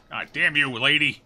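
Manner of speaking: loud cursing at the monster; angry curse. Real, not acted. Hit by the monster.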